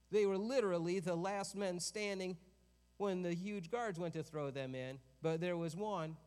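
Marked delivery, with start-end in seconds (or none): 0.1-4.7 emphatic. Acted. Repeated for emphasis.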